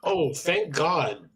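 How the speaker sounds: slow, dry sarcastic relief. Acted. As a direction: drawl out fake relief. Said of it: "he said sarcastically".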